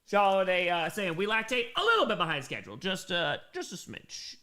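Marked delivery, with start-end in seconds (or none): 3.5-4.4 breathy aside, whispered. Pretend. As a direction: slip it in as a whisper. Repeats the phrase two ways.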